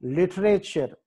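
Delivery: లిటరేచర్ with the stress on "lit"; లిటరేచర్, weight at the start. Shown as a demonstration. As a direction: hit the first syllable of లిటరేచర్. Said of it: "ఎల్ దగ్గర stress mark".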